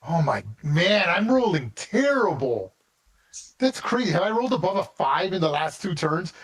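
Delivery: real disbelief at terrible rolls; groaning at bad luck, voice climbing high; frustrated disbelief. Real, not acted. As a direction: pitch jumping up, exasperated. Cursing his bad dice rolls.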